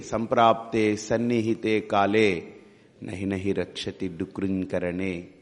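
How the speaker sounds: slow, low, drawn-out recital; measured scriptural recitation in a low pitch; Sanskrit verse recitation. Acted. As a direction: recite the verse slowly, stretching each word. Quotes a Sanskrit verse in teaching.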